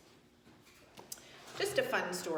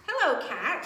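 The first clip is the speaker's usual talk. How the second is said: higher, louder friendly duck greeting; chirpy duck saying hello; cheery duck; 5 semitones higher, 4 dB louder than usual. Acted. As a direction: call out a bright hello as Duck. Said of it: "said Duck".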